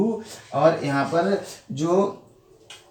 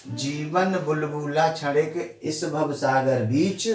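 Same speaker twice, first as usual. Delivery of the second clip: slow, rhythmic couplet reading; reading verse aloud; slower than usual. Shown as a demonstration. Teacher reads the verse reversed as a doha, slow and rhythmic. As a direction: let the metre flow as a doha. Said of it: "अब इसको उल्टी तरीके से पढ़ो".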